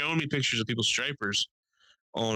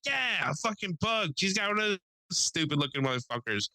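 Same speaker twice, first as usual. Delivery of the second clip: exasperated relief, pitched up; mock vindication; 7 semitones higher than usual. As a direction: imitate an old man finally hearing the word he wanted. Acting old man finally getting the word.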